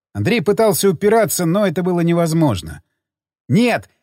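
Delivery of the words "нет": rising desperate pleading shout; pleading cry. Acted. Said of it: "умоляюще закричал он".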